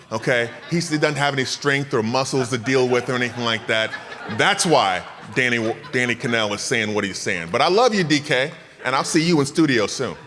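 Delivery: loud, laughing boast at a friend; playful trash talk. Real, not acted. Trash-talking former teammate, laughing.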